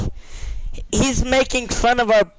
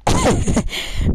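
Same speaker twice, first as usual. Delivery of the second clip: breathy high-pitched burst of laughter; can't hold back a squeaky laugh. Real, not acted. Cracking up at the stranger's insult, high laugh.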